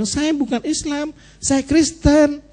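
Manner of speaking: high, slow, drawn-out correction; acted protest. Preacher telling a visitor he is Christian, high-pitched protest. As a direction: stretch it out high, as if setting someone straight.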